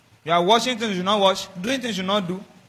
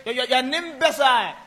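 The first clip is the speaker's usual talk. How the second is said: mock angry insult; 5 semitones higher than usual. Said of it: "At the end, and I won".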